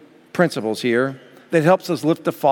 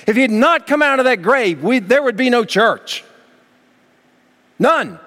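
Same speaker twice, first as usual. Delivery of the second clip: raised, higher preaching build; fervent pulpit climax; preaching at full force; 7 semitones higher, 3 dB louder than usual. Acted. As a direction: lift the whole church with it.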